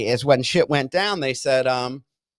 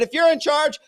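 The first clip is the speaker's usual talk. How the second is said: retold angry demand; 10 semitones higher than usual. Patient demanding his cell phone from staff, mock furious. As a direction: re-enact the demand with strained high pitch. Retells his side of heated quarrel.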